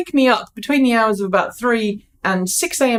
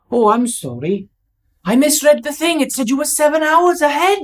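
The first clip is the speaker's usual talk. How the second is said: put-on Welsh accent; 5 semitones higher than usual. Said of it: "Bad Welsh accent".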